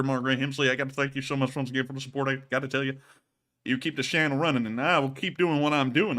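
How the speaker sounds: lightly voiced Southern good old boy; put-on Southern drawl voice. Thanking the donor in a put-on Southern accent. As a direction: lay on a mild country accent, thanking a donor. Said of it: "keep on doing this voice".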